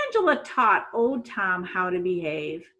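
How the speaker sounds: lively read-aloud storytelling voice; story narration. A narrator's reading. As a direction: read it like a storybook to young kids.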